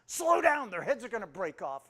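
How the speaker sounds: high, loud panicked plea; alarmed wife. Retold or imitated. Wife to husband driving the newborns, a loud panicky cry. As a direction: cry out as if the car's too fast.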